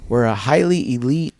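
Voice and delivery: hammed-up bragging cop; pompous detective. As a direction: make the unit sound grand and self-important. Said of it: "He goes".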